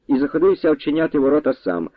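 plain reading voice

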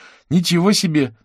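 put-on high, loud girl's exclamation; a child clapping with wonder; amazed. A narrator's reading. Girl claps at the dog's trick, amazed and loud. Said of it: "Алёна захлопала в ладоши".

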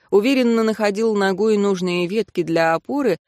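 ordinary delivery

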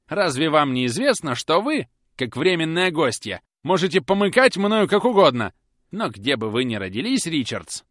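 mock her with venom; sarcastic. A narrator's reading. Susan needling Polly, loud and sarcastic. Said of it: "продолжала Выжига".

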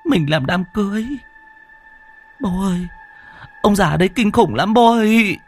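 put-on high girl's voice, tearful and scared; whimpering and sobbing. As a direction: sob it out to your father. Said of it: "mếu máo nức nở".

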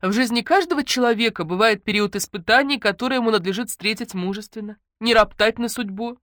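high, doleful sermonizing; mock-solemn lament; mournful droning. A narrator's reading. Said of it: "заунывно начала Ленка".

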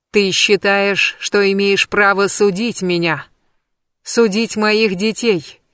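slow, menacing hiss; a touch of venom, spoken slowly. Acted. Witch challenges the goddess, slow venomous hiss. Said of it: "прошипела Ангербода".

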